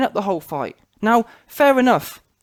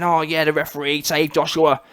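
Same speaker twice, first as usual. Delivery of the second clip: lower-pitched, mocking Aussie commenter; mock Australian accent; 5 semitones lower than usual. Vlogger mocking Australian commenters in a lower Australian accent. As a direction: lampoon the fans in an Australian twang. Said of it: "everyone's coming in the comments and saying".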